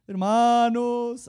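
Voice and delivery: drawn-out booming address to the brethren; old man preaching. Retold or imitated. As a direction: call out to the congregation like an elderly believer. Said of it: "lo voy a ejemplificar".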